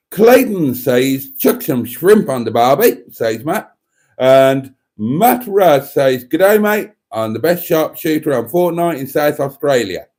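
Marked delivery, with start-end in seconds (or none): 1.4-3.0 louder mock Australian accent. Reading a viewer's barbecue message aloud, mock Australian accent. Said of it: "in his Australian accent". 6.2-10.1 high, loud mock Aussie greeting; Australian accent. Reading a viewer's Fortnite boast aloud, Australian accent. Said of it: "in his Australian accent".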